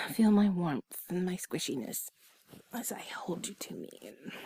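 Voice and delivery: ordinary talk, nothing marked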